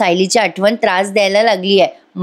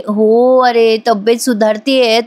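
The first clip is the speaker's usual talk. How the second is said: slow, drawn-out, feigning weakness; milk "सुधारतीये" slowly like a patient faking it; putting on sickly act; slower than usual. Pretend. Priya to Ashwin, pretending to be unwell, slow drawn-out fake frailty. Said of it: "आता लगेच बरं काही नाटक करायला लागते".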